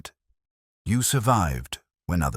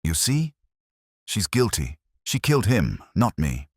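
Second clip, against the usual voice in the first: sneering; 4 semitones higher than usual. A narrator's reading. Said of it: "Pine sneered".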